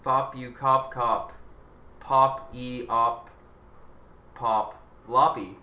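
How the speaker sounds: slow, made-up op language gibberish. Shown as a demonstration. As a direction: sound out each syllable slowly. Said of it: "I said fuck people in op language".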